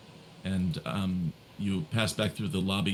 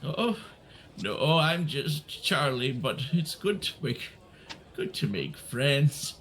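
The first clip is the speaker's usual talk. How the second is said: put-on old man voice; 4 semitones higher than usual.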